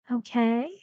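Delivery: "Okay" gliding upward; rising intonation. Shown as a demonstration. Teacher isolates the last word, rising "Okay". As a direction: say "Okay" as a lifted question. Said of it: "A rising intonation".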